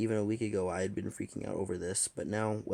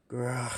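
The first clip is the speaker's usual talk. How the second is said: short annoyed growl; irritated grah under the breath; grumpy growl; 3 semitones higher than usual. Acted. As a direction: growl like a cranky dragon. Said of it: "please excuse my language".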